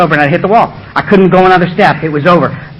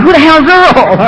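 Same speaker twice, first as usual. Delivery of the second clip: crowd murmuring; 9 semitones higher, 3 dB louder, slower than usual. Retold or imitated. Whole meeting reacts.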